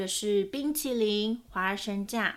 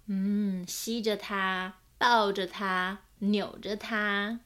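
lively picture-book reading with voiced characters; story narration. A narrator's reading. Narrator reading a children's book aloud, storytelling voice. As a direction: read it like a storyteller to small children.

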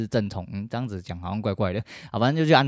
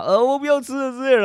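put-on distressed kid; 4 dB louder than usual. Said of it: "三个小朋友就很痛苦啊".

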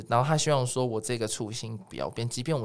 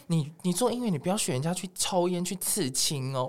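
mock grandma warning; grandma's nagging; 7 semitones higher than usual. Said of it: "她说". (轻轻模仿阿嬷的叮咛)

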